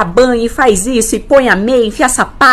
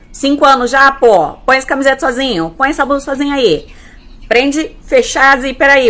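mock impatient scolding, pitched up; bronca impaciente; 4 semitones higher than usual. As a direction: nag a child to do it alone. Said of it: "você não vai falar assim". (bronca impaciente de mãe)

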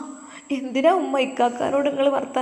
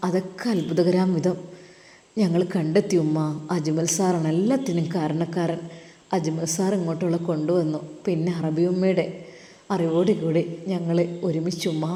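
put-on young man Sinan; 6 semitones lower, 4 dB quieter than usual. Son-in-law Sinan telling his mother-in-law on the phone, lower respectful male voice.

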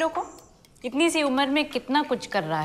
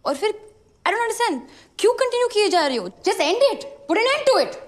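higher, exasperated demand; pitched-up angry insistence; exasperated outburst; 4 semitones higher than usual. Acted. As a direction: challenge them with rising frustration. Acted outburst at parents.

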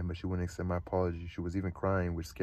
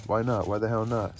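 louder, pitched-up outburst; screaming; 3 semitones higher, 6 dB louder than usual. Acted. Holden yelling at Sally who won't run away. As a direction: fling the question at her, raised voice. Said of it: "Stop screaming at me".

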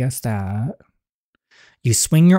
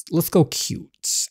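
whispered repeat; 4 semitones higher, 6 dB quieter, much slower than usual. Acted.

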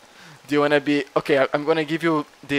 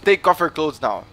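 cop command; 4 semitones higher, 5 dB louder than usual. Acted. Plays cop ordering a search.

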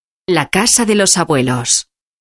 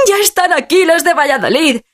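aguda y alegre, anunciando la llegada; la abuela anuncia feliz a los nietos; muy contenta; 11 semitones higher than usual. Acted. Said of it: "dice ella muy contenta". (muy contenta)

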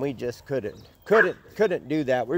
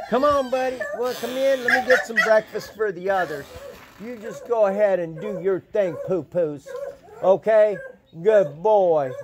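coaxing dog talk; 5 semitones higher than usual. Real, not acted.

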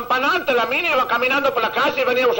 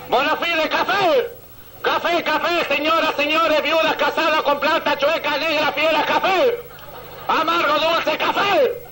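street coffee vendor; 4 semitones higher, slower than usual. Retold or imitated. Imitating a coffee vendor calling.

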